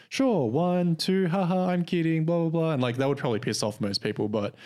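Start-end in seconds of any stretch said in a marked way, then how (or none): 0.1-2.7 high, playful imitated voice; kidding along as an overjoyed server; ecstatic server. Dairy Queen lady teasing a customer, imitated ecstatic. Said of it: "like, super ecstatic".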